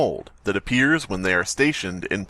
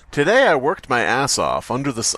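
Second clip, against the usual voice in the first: put-on Southern accent. Reading the journal aloud to friends in a hint of Southern accent. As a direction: read it as a Mississippi farm kid. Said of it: "there goes the accent".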